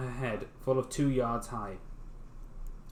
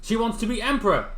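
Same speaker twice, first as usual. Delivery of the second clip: fisherman voice; 9 semitones higher, 6 dB louder than usual. Acted. Fisherman reporting, voiced high.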